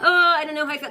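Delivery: high, hesitant mock skeptic; unsure skeptic. Mimicking wary viewers unsure of the channeled message, high and hesitant. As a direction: play the doubter who isn't sure about the message. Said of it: "for some people this is a little bit like".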